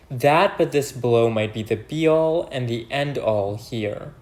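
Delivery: slow, measured verse reading; soliloquy reading. Acted. Teacher reading Macbeth's soliloquy to viewers, slow and measured. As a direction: recite it deliberately, drawing out the lines.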